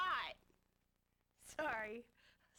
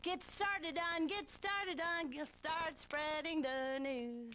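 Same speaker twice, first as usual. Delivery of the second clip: Captain Kirk; much slower than usual. Retold or imitated. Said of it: "I was doing Captain Kirk".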